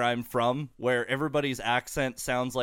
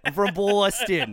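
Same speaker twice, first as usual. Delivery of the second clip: slow, loud, hammed-up Boston accent; 5 semitones higher, 4 dB louder than usual. Shown as a demonstration. Host shows off his impression to the band, hammed-up Boston accent. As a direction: lay on a thick, drawn-out Boston accent. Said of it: "ready for my Boston".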